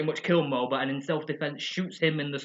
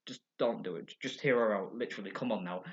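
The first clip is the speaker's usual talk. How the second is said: hushed warning; 6 semitones lower, 6 dB quieter than usual. Retold or imitated. Kids hushing Homer.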